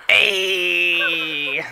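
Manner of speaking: loud call across the trail. Real, not acted. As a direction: shout to get attention from afar. Calling out to friend.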